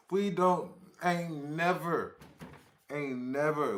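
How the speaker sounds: loud, amused protest after laughing; loud disbelief. Real, not acted. Denying locals talk like that, loud and incredulous. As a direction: protest it loudly, barely over a laugh.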